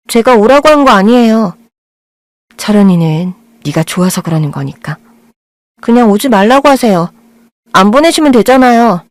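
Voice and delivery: put-on sulky girl. Sulky girl answers the mother.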